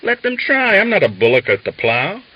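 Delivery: loud, high scornful challenge; defiant shout. A narrator's reading. Christonia daring the Whites to take him, loud shout. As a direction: dare them to try.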